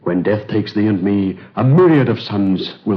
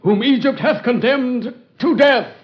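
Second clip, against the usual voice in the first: dying gasp; 3 dB louder than usual. Acted. Dying slave's last words.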